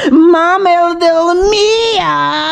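loud stuttering build to a high wailing cry; panicked stammer into a crying wail; stammering shriek. Acted. Shocked stammer at letter.

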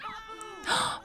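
high startled gasp; sharp gasp. Real, not acted. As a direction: gasp at the surprise. Sudden news of a birth.

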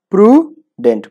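প্রুডেন্ট split into "pru - dent"; syllable by syllable. Shown as a demonstration. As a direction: count out two beats in প্রুডেন্ট: pru, dent. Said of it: "কয় syllable হলো". (প্রুডেন্ট দুই সিলেবলে ভেঙে, প্রু - ডেন্ট)

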